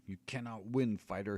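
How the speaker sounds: a hint of a hissing wizard. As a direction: threaten him from inches away. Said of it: "he hisses".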